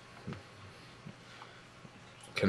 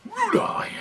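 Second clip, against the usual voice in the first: high-pitched call. Real, not acted. Calling dog by silly name.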